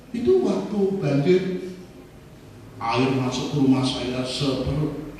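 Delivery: ordinary delivery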